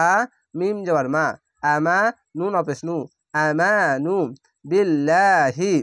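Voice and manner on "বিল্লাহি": বিল্লাহি with a light, thin lla and held i; slow tajweed reading; thin Allah. Shown as a demonstration. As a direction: keep the lla of বিল্লাহি thin, not heavy. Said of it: "আল্লাহ লেখাটি পাতলা করা হবে".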